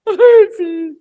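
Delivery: wailed, very high and loud answer; Pedro. Acted. Peter confronted by Jesus, loud acted wail. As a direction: answer in an acted tearful cry. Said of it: "después con lágrimas".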